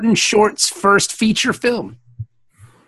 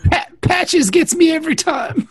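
higher, stuttering fake sob; mock crying; 4 semitones higher than usual. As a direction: choke up theatrically on the first word. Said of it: "He's a crying ass dude".

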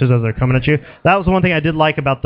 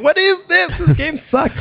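very high-pitched exasperated whine; hammed-up high-voiced complaint; mock frustration; 14 semitones higher than usual. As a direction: squeal it like a frustrated gamer. Retells own frustration while playing.

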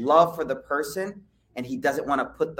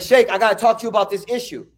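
put-on eager young challenger; 5 semitones higher, 6 dB louder, faster than usual. Eager young man confronts Imam Malik.

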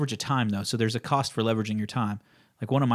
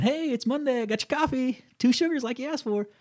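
much higher, sugary mock voice of a schmoozing salesman; mock receptionist flatterer; 13 semitones higher than usual. The host mocks a salesman sucking up to the front desk girl, in a much higher, syrupy mock voice. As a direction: lay it on thick, like a suck-up bringing coffee. Mocking a coffee-fetching salesman.

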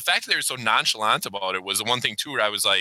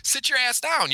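higher mock order to sit down; pretend stern dad; 13 semitones higher than usual. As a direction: lay down the law as the dad. Imagined dad refusing daughter.

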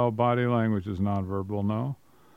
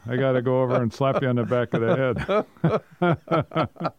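laughing; 3 dB louder than usual. Real, not acted. Playful threat amid laughter.

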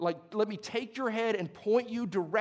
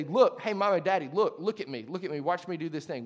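put-on loud, excited child calling for attention; eager kid; 5 dB louder than usual. Preacher imitating a child calling to parents, loud and eager. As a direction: call out like a kid wanting to be watched. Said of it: "You ever have your kids say".

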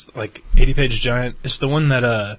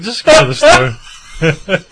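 dismissive; 8 semitones higher, 10 dB louder, much slower than usual. Retold or imitated. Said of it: "I was like".

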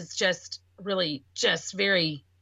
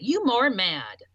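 put-on child's words; slower than usual. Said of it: "That's how he said it".

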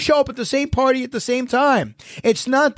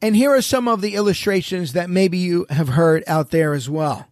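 normal talking voice

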